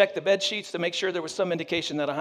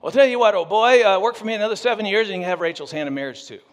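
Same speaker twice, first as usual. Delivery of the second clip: put-on smug British accent; 3 semitones higher, 4 dB louder, faster than usual. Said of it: "Uncle Laban sounds British".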